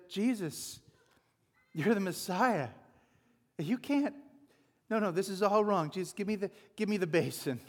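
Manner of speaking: a disciple jumping in to serve, lightly hammed; eager Peter. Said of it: "Someone should have said".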